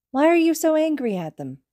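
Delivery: put-on high, pleading toddler question; a little boy confused and upset; upset child voice.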